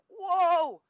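high, loud imitated "whoa"; mock alarm. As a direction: put on a sudden, exaggerated call to halt. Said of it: "has all of a sudden said".

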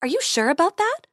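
high bright fairy voice; sweet high tooth fairy. Acted.

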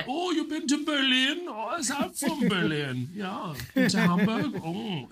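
very high, hammed-up German accent. German chatting with a visitor about Berlin, mock German accent. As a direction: coo it as a caricature German. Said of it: "do the German accent".

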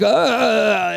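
drawn-out "uhhh" of fake climax; mock climax groan. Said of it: "I'm coming while they say".

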